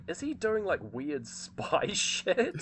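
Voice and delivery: alarmed question. Retold or imitated. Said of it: "I was like".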